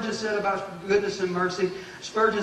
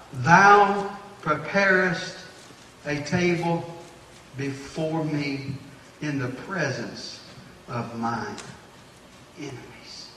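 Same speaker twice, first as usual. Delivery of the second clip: drawn out, softening to a hush; slow scripture reading; slower than usual. Real, not acted. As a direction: read the psalm slowly and reverently. Reading Psalm 23 slowly.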